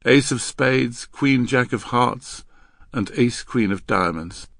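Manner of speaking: slow, measured listing; girl reciting. Acted. Girl decoding the hand for Henry, reciting. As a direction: plod through the cards by rote. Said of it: "the girl recited".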